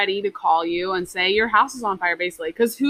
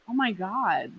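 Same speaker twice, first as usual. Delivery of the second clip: sluggish oh my god; 7 dB quieter than usual. Retold or imitated. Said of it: "moves like a sloth".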